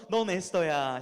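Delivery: tender address. Shown as a demonstration. Teacher repeats the demo to the class, tender. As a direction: call your friend lovingly. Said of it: "한 번 더".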